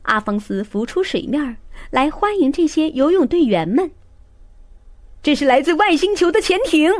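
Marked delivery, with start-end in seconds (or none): 5.2-6.9 high, panicked coach shriek. A narrator's reading. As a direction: scream it in alarm. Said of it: "教练尖叫起来".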